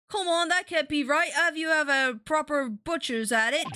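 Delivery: put-on Cockney accent. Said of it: "I bet this is that one Cockney lady".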